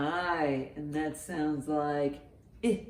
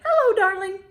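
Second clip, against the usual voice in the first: much higher, loud squawking parrot; 9 dB louder than usual. Acted. Storyteller mimics a parrot for kids, high and loud. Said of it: "like that parrot".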